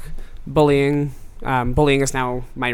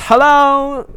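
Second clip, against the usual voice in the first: much higher, bright sung-out greeting; imitating a pop singer; 12 semitones higher, 8 dB louder than usual. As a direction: greet like a star in a video. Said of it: "She says".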